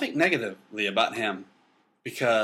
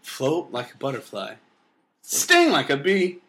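poetry recital; 2 semitones higher than usual. Retold or imitated. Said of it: "That's how he would say it".

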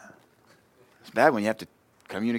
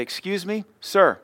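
put-on higher, sweet little-girl voice; imitating little daughter; 8 semitones higher, slower than usual. Little daughter answering her father, high and sweet. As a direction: play the child answering politely. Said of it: "I'll say".

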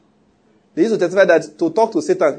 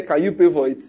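laughing retort. Retold or imitated. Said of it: "I say".

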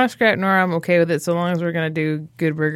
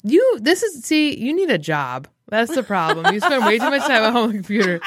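mock scolding; 2 semitones higher than usual. Host scolds her friend for slacking at home, mock scolding. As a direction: tease him like a nagging parent. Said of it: "I'm like".

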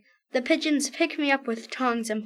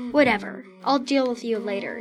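grumble; 3 dB louder, faster than usual. Acted. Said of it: "he grumbled".

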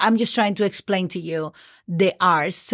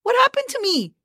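much higher pitched mock alarm; high-pitched, startled self-reproach; startled dismay; 13 semitones higher than usual. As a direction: act out catching yourself in shock. Acts out her own startled reaction.

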